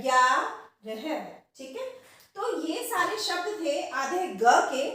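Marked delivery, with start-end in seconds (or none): 0.0-1.4 ग्यारह drawn out, half ग gliding into य; careful slow ग्यारह; slow demo. Shown as a demonstration. Teacher slowly models ग्यारह for students. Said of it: "इसमें आधे ग का उच्चारण य के साथ".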